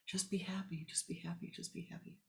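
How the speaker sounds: dying away to a whisper; the teaching echoing in her head; fading echo. Acted. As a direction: let it fade like a memory.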